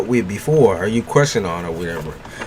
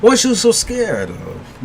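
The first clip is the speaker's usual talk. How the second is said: teasing question; 8 semitones higher, slower than usual. Acted. Teasing the viewer.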